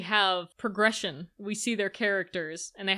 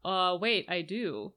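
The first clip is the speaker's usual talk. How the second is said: lower, trailing mock realization; acting out his realization; 4 semitones lower, 4 dB quieter, slower than usual. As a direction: drop low, as if catching himself. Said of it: "he's like".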